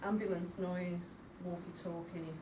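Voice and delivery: ordinary talk, nothing marked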